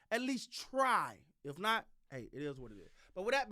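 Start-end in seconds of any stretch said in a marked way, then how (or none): 0.1-1.2 "At least try." said very slowly, each word spaced out; slow emphatic repeat. Shown as a demonstration. Host urging the Cowboys to try, stretching "At least try." out slowly. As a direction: drag out "At least try." for weight. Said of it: "You got to at least try".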